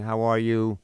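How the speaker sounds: imitating a polite, civil greeting; plain, evenly spoken courtesy; civil tongue. Man greeting another father by first name, civil and measured. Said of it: "in perfectly, uh, civil tongue".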